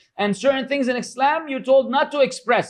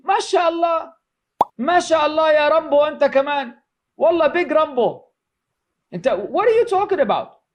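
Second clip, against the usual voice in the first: mock praise; 5 semitones higher than usual. Mocking online keyboard warrior.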